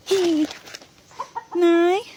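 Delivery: loud call to mother. Acted. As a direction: shout across the house. Calling out to mother.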